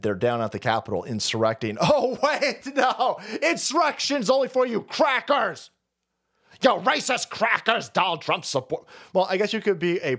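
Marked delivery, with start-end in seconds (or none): 1.8-8.8 high, hammed-up taunt; mock scolding. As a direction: pitch it up and jeer in mock outrage. Mock correction aimed at crackers.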